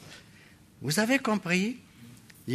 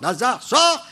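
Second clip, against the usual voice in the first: higher, commanding call; raised-voice order, preacher acting it out; loud command; 7 semitones higher, 4 dB louder than usual. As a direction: call someone out with authority. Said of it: "Il cria d'une voix forte".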